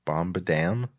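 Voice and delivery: soft, low, uncertain fanfare; tentative fanfare. Acted. Reader unsure of the hero's entrance, tentative and soft. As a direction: try the fanfare out quietly.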